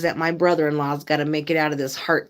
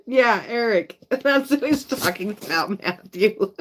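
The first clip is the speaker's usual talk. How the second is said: laughing; 3 semitones higher than usual. Real, not acted. Laughing at misunderstanding.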